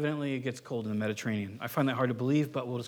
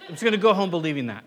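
laughing; 5 semitones higher, 11 dB louder, faster than usual. Real, not acted. Jokes about running late.

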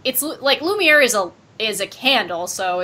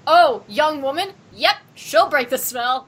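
voicing Lumiere; 4 semitones higher, 4 dB louder than usual. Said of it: "immediately assumes".

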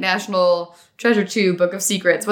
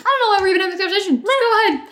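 mock dismissive; 8 semitones higher, much faster than usual. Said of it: "they're like".

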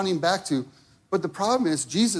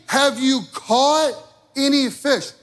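pastor acting Jesus calling to fishermen, higher and louder; 6 semitones higher, 3 dB louder than usual. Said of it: "he's asking them a question".

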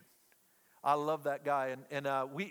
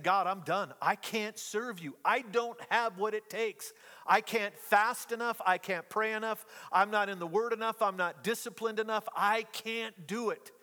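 pleading with a tremble of despair; retold despair; 3 semitones higher than usual. Pastor reliving his dorm-floor breakdown, anguished plea. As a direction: cry out to God, at the end of your rope. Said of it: "just weeping".

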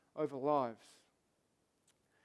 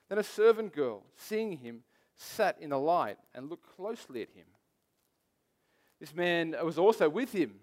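measured Bible reading, lower in pitch; scripture reading; 4 semitones lower than usual. A narrator's reading. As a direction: read the passage aloud to a congregation. Reads the Bible passage aloud.

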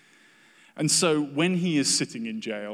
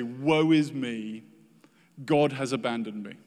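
mock whinge. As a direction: moan it out like a self-pitying grumbler. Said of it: "Do you whinge and moan".

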